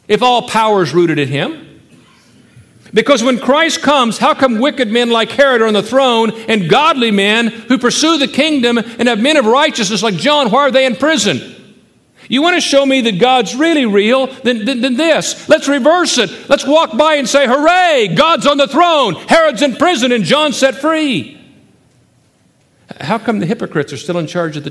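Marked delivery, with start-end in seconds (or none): 2.9-17.5 louder and higher, pressing each question hard; fiery preaching. Acted. Preacher challenging his congregation, in full-force preaching. 17.5-21.4 high, loud hooray of pretend triumph, slowing at the end; mock cheer. Preacher imagining the faithful celebrating, with a mock triumphant cheer.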